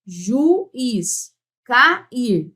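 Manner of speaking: "juiz, cair" as ju-iz, ca-ir with gaps; teacher splitting each of "juiz, cair" in two; separated syllables. Shown as a demonstration. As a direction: pause between the two vowels in "juiz, cair". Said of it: "Eu separo".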